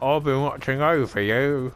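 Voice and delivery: put-on, muddled Armenian accent, drawn out; bad Armenian accent. Mocking a celebrity's hologram greeting in a shaky Armenian accent. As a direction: slowly attempt an Armenian accent and miss. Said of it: "that's the wrong accent there".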